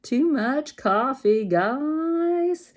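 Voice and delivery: giddy coffee-buzz outburst; hyper laugh. Real, not acted. Over-caffeinated crafter laughing to viewers, hyper and loud. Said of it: "I'm just hyper".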